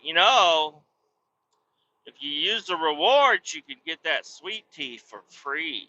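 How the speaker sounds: lightly voiced helpful cashier. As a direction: sell the rewards sweetly. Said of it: "She's like".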